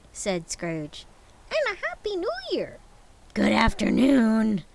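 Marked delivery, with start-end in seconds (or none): 1.5-2.8 high, cracking plea; pleading nephew. Acted. 3.3-4.6 loud curt dismissal. Acted.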